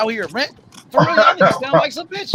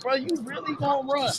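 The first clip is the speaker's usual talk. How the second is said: hushed disbelief; 13 dB quieter than usual. Retold or imitated. Imitating Judah looking at Devin Haney, hushed disbelief. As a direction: say it softly, as if imitating a disbelieving onlooker.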